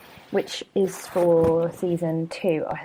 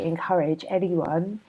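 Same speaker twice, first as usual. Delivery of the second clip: yawning. Real, not acted. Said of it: "sorry, I'm yawning".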